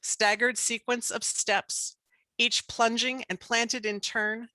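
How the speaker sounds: measured poem recital with pauses between phrases; poetry reading. Acted. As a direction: read it as a poem, line by line. Reads her poem aloud.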